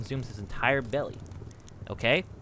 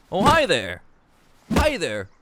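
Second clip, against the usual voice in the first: higher, stretched-out celebrity greeting; Eddie Murphy; 8 semitones higher, 3 dB louder than usual. Acted. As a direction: announce yourself in a high put-on voice. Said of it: "Yeah, that's how he talks".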